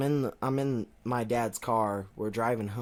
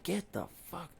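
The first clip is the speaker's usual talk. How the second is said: angry dad; 7 semitones higher, 9 dB quieter than usual. Retold or imitated. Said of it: "like, he's pissed".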